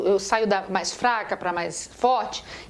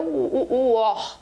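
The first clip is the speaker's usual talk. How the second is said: or drawn out slowly as the stressed sound; stretched stressed syllable; much slower than usual. Shown as a demonstration. Teacher showing students where órgão is stressed, slow and drawn out. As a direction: lean on the or, slow and long. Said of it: "A tônica é o".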